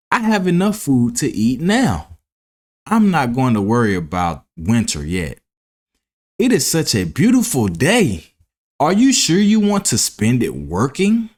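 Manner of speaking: breezy, teasing the hard worker; carefree grasshopper. Acted. Grasshopper brushing off warning.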